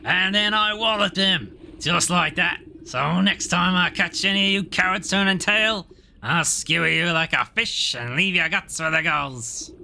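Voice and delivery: blustering bear. Acted. Bear boasts, threatens soldiers.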